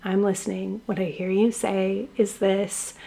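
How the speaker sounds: calm a triggered spouse with a soft, steady voice. Retold or imitated. Wife calming her angry husband, soft and reassuring. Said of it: "I'm gonna lower my voice".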